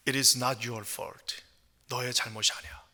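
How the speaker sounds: low, soft and slow consoling voice; hushed counsellor's comfort; gentle reassurance. Acted. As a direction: reassure quietly, letting each word settle. Counsellor consoling troubled youth in film.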